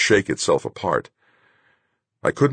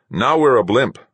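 high, loud announcement; calling out; 8 semitones higher, 7 dB louder than usual. A narrator's reading. Crew member after heat shield jettison, calling out. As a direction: announce it loudly, pitched up.

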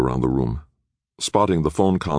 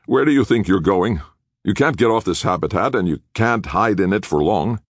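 higher-pitched challenge, insistent; lightly voiced defiant security leader; 7 semitones higher, 4 dB louder than usual. A narrator's reading. Team leader warns the escaping captives, defiant challenge.

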